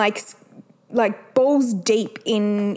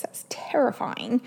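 whispered aside; 6 dB quieter than usual. Real, not acted. Aside about son turning six.

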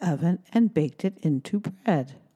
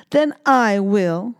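slow, louder firm hen; determined hen; 3 semitones higher, 6 dB louder, slower than usual. Acted. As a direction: say it firmly, on her own. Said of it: "said the little hen".

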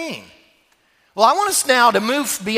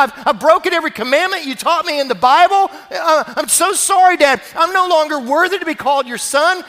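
raised, pleading voice of the prodigal son; 5 semitones higher, 3 dB louder than usual. Acted. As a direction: beg your father, voice lifted and earnest.

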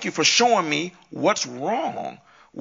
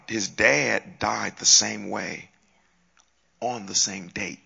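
slow, breathy whisper; hushed whisper; 9 semitones lower, 4 dB quieter, much slower than usual. Real, not acted. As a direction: drop to a whisper as if sharing a secret. Hushed aside about the father.

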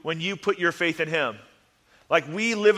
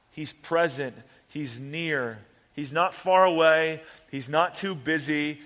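tender. Real, not acted. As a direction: hold them close with your voice. Soft comforting run.

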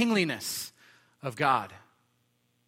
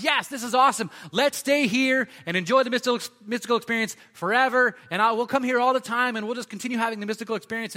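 much higher and louder, gushing with delight; thrilled Peter; 9 semitones higher, 8 dB louder than usual. Retold or imitated. Peter begging to stay on the mountain, high and gushing. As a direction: play an overeager fan who never wants to leave.

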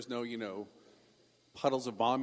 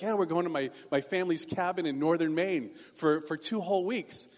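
put-on eager kid's bragging, a bit raised; excited; 2 semitones higher, 3 dB louder than usual. Teen telling rich kids about the family cabin, excited. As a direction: blurt it out with boyish excitement. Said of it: "I always be so excited".

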